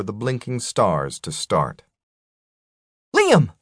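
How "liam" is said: sharp high shout of alarm. Acted. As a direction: yell his name in sudden alarm. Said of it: "Selena shouted".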